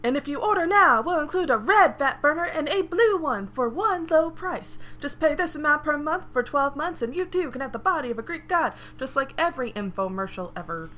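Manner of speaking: high, loud infomercial pitchman; same silly voice. Acted. Cohost doing Colton's voice, loud hammy pitchman. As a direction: sell it like a cheesy TV ad. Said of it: "should I just do the same voice as Colton".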